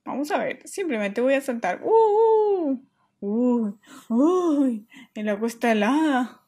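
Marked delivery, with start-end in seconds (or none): 1.8-4.9 cold shock. Acted. Jumping into cold pool.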